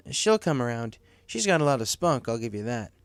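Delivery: a friendly manager asking what's wrong; Cloud Kicker voice. Acted.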